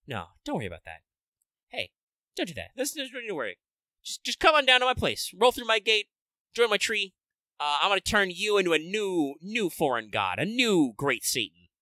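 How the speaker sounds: high, smug villain voice; lightly hammed-up smug villain; villain Domon voice. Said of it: "he's just like".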